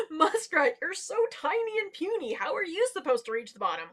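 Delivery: loud, high-starting jeer; mocking laughter. A narrator's reading. Large animals laugh at tiny muskrat, loud mocking. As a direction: scoff loudly at the little one. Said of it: "started erupting in laughter".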